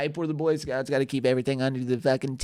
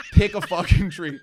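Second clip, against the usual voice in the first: louder laughing; 7 dB louder than usual. Real, not acted. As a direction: laugh through it. Laughing repeat.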